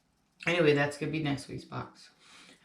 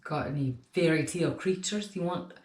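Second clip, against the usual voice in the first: bad Scottish accent. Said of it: "That terrible Scottish accent".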